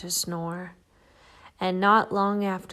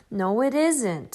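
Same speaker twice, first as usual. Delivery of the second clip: more crossly; 4 dB louder than usual. Acted. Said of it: "said Shelley even more crossly".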